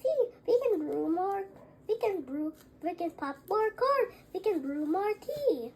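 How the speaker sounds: a tiny mouse comforting the bear; squeaky mouse. Acted. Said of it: "Mouse squeaks".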